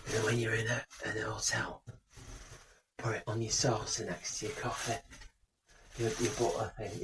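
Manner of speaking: hushed, secretive tip; whispering on the phone. Real, not acted. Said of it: "Why are you whispering?".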